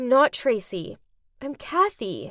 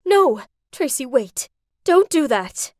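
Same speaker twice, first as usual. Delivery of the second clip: yelling; 5 dB louder than usual. Acted. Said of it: "my mom yelled".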